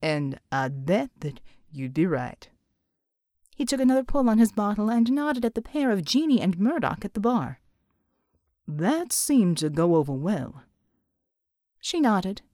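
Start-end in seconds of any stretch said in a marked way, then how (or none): 0.0-2.5 Pride's voice. Acted. Pride's dialogue voice. 8.7-10.6 Pride's voice. Acted. Pride's dialogue voice.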